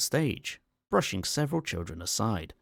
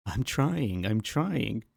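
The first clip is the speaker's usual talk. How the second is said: flustered; 4 semitones higher, 4 dB louder, slower than usual. Acted. Man struggles with the phone.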